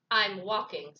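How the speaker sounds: a touch of grumpiness, punched briefly; mildly grumpy. Acted. Grumpy Bird answering Rabbit, mildly grumpy.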